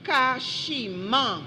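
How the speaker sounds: careful spelling bee announcement; dictating a word. Real, not acted.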